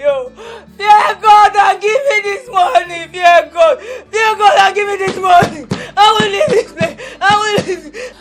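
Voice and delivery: defiant crying shout. Acted. Refusing to leave until paid.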